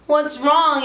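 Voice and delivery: high-pitched coaxing teacher voice; lifted pitch, checking on a little one; concerned teacher. Retold or imitated. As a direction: imitate a preschool teacher fussing over a child. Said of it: "She was like".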